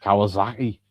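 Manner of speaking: short Geordie catchphrase demo; lightly put-on Geordie accent. Shown as a demonstration. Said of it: "if you're Geordie".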